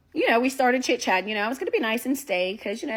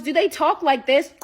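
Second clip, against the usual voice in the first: mock clickety-clack talk, a bit louder; talking funny; 3 semitones higher, 4 dB louder than usual. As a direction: imitate a date's clueless impression with tongue clicks. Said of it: "he just started talking funny and making all this".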